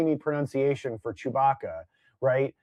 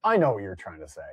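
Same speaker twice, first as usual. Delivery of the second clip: mock quote; 6 semitones lower, faster than usual. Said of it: "Brian started by saying".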